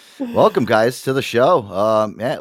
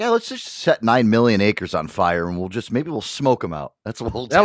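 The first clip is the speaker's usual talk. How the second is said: ordinary talk, nothing marked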